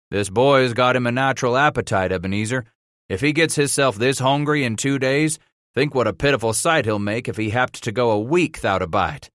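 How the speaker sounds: a hint of a jovial backwoods boatman; lightly voiced teasing boatman. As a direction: tease the boy's appetite good-naturedly. Boatman teasing the hungry boy.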